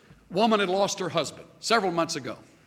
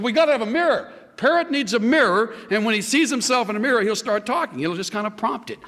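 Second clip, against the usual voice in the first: store owner insisting; 5 semitones higher, faster than usual. Retold or imitated. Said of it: "He said".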